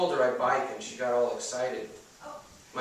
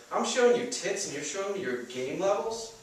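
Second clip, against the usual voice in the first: incredulous buddy; 8 semitones higher, 3 dB louder than usual. Acted. Vinny incredulous.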